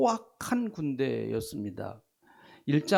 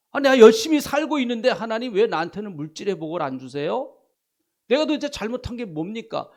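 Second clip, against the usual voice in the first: arguing with God; 4 semitones higher, 5 dB louder than usual. Shown as a demonstration. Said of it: "따져보세요".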